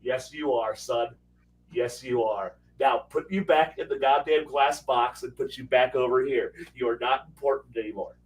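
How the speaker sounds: put-on condescending parent soothing a boastful kid; patronizing coo.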